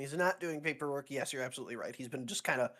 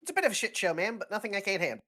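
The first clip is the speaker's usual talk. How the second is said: lightly voiced lieutenant, higher; higher-pitched junior officer answering; Lance voice; 5 semitones higher, faster than usual. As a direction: report to the colonel, pitched up. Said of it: "doing the Lance voice".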